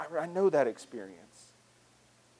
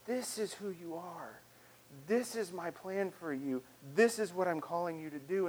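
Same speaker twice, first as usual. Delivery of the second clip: gentle voice of God; 7 dB quieter than usual. Acted. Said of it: "that true voice of God that's saying".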